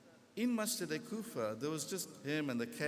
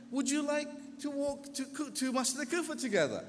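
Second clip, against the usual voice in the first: higher-pitched, friendly invitation; warm friendly voice; 10 semitones higher than usual. Retold or imitated. Scholar inviting the young man to walk along, warm and friendly. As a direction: offer it amiably, with the pitch lifted. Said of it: "in a warm, friendly voice".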